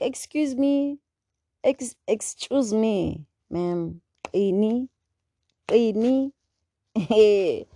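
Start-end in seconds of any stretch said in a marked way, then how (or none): 0.0-6.3 indignant retort. Retold or imitated. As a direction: bristle at the nickname. Retold indignant reply to lady.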